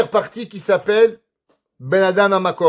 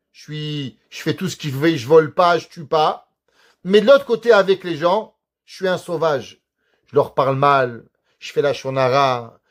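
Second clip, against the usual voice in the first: mock the man who brags about his prayers; smug pious hypocrite; 5 semitones lower than usual. Teacher mimicking a smug congregant for the class. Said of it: "Il y a des gens qui croient".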